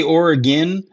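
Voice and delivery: "Oregon" said as "OR-uh-gin"; own Oregon pronunciation. Shown as a demonstration. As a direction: end "Oregon" on a short "gin". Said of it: "is it Oregon or Oregon".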